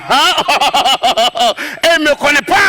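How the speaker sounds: laughing through the words. Real, not acted. Comedian laughing at himself telling the crowd. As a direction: crack up at the absurd chase.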